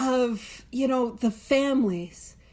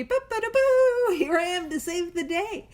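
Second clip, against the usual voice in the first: mock superhero; 5 semitones higher than usual. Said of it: "throw on that cape".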